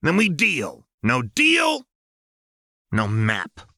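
high, loud shouted demand. Acted. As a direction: shout it to the whole room. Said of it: "threw her arms wide and shouted".

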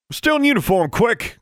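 high, loud angry bark. A narrator's reading. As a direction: snap the order at her. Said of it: "he barked at her".

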